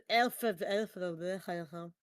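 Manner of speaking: put-on old man voice cracks; cracking, breaking voice. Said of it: "I heard your voice crack there".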